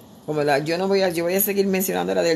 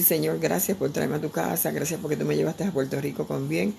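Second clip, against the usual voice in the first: soft prayer; 5 dB quieter than usual. Retold or imitated. Quoting her prayer in church.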